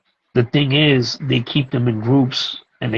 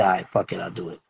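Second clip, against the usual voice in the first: softer, lower, trailing off; resigned agreement; 5 semitones lower, 8 dB quieter, faster than usual. Retold or imitated. A teacher reluctantly agrees to keep teaching, softer and lower. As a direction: give in with a shrug in the voice.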